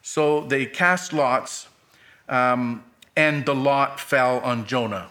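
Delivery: measured Bible reading, phrases falling at the ends; solemn scripture read. Acted. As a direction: read the Word steadily to the church.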